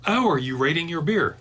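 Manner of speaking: a hint of an Englishwoman's accent; English accent. Beer fan retelling an Englishwoman's question at the bar, English accent. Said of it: "in her English accent".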